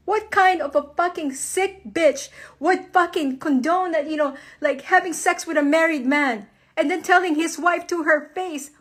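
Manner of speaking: incredulous anger at a betrayal; outraged rant. Real, not acted. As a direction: let real fury push the pitch up. Real rant at husband's mistress.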